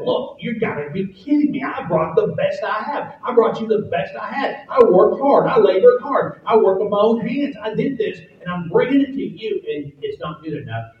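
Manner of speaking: a hint of Cain's wounded outrage; Cain's indignant complaint. Cain protesting to God that his best wasn't good enough, indignant.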